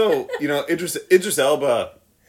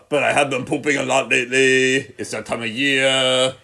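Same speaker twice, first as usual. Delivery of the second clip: Joel Embiid impression. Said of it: "I can do a Joel Embiid".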